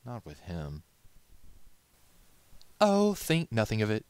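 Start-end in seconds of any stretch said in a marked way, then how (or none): 2.8-4.1 high, loud and airy lady's voice; breezy and charming, brushing it off. Acted. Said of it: "she said".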